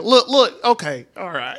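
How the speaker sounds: argumentative Southern drawl, starting high then settling; imitated Southern accent. Friend imagines the golfer arguing back, mock Southern accent. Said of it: "the perfect accent to argue against you".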